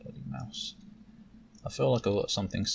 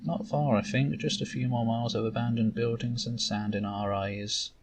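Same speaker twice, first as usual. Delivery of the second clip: impatient mentor. Acted. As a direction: hurry the apprentice along. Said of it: "How far are we from Dry Peak?".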